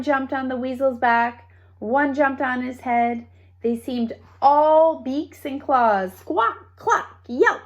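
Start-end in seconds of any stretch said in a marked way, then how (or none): 6.1-7.6 high squawking hen sounds; chicken noises. A narrator's reading. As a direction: squawk and cluck like fighting hens. Chickens battling the weasel.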